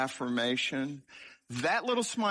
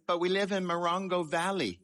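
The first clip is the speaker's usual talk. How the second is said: put-on lightly raised, innocent nine-year-old voice; a hint of a small boy stating the obvious; little boy voice; 5 semitones higher than usual. Boy answering the social worker in a small voice. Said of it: "And in my little voice".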